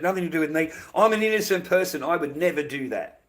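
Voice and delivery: sarcastic put-on innocent voice, breaking into a laugh; mock innocence. Ranter mimicking a leader denying an assassination, mock innocent. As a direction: play the liar's fake innocence, then laugh. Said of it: "that same guy says he's got nothing to do with it".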